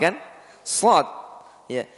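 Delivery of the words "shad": heavy emphatic s; heavy shad. Shown as a demonstration. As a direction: stress the emphatic shad sound. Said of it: "di sini shad".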